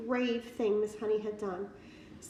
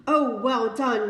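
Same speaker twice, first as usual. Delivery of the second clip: loud, slow joyful cheer; delighted cry; 9 dB louder, slower than usual. Acted. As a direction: Matilda cheers Miss Honey's escape, loud and drawn out. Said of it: "Matilda cried".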